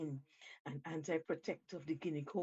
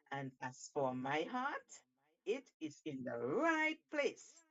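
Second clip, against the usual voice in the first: a raised, gleeful monkey voice mocking the shark; lightly voiced cheeky monkey; taunting Monkey; 3 semitones higher than usual. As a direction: gloat down from the safety of the tree. Monkey mocks Shark from tree.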